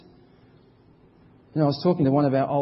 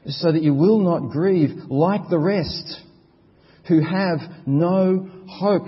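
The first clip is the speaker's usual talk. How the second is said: emphatic reading; 4 semitones higher, 5 dB louder, slower than usual. Acted. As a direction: read it out firmly and louder, slowing on hope. Scripture read with force.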